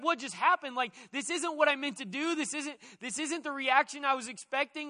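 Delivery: bewildered, can't believe it; confused Peter. Retold or imitated. Peter stunned after Jesus rebukes him, mildly bewildered. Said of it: "he's just confused".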